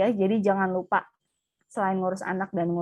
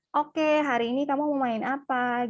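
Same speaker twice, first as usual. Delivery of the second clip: a hint of a bright mom voice, pitched up; mock cheerful mom; 5 semitones higher than usual. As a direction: invite the child to play, lightly lifted. Mother entering child's room. (ibu menawarkan main, suara sedikit tinggi)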